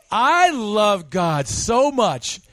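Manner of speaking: slow, syrupy churchy voice; a preacher parodying a self-satisfied believer; mock pious boast. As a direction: ham up a showy pious claim. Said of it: "if Pastor John says".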